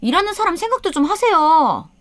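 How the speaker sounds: high-pitched snapping daughter-in-law; sharp, irritated. A narrator's reading. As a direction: scold in a high, edgy voice. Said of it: "며느리가 날선 목소리로 저에게 짜증을". (날선 목소리로 짜증 내며)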